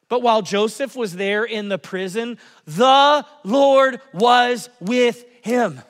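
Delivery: slow, weighty scripture reading; read out slowly. Shown as a demonstration. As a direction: let the verse land slowly. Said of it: "you'll see words like, like this".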